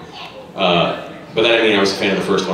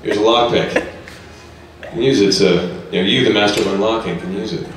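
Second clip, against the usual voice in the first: Tiger's voice. Acted. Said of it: "lines from Resident Evil in Tiger's voice".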